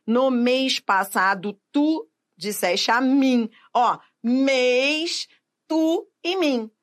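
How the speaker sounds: "mês", "tu" and "mim" slow and forceful; drawn-out, emphatic "mês", "tu", "mim"; strong stressed monosyllables. Shown as a demonstration. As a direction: lean hard on "mês", "tu" and "mim". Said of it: "São pronunciados com força".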